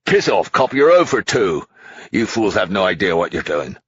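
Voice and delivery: put-on angry drunk tycoon. A narrator's reading. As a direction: sneer at the cop. Hastings voiced as character.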